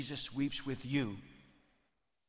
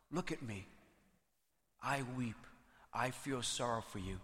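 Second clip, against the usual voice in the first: soft, measured compassion; tender sorrow; 3 semitones lower, 5 dB quieter than usual. Acted. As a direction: speak gently, as Jesus consoling. Jesus tenderly shares Mary's sorrow.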